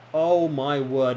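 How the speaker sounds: awed at the free kick going in; stunned exclamation. Real, not acted. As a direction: draw it out in disbelief.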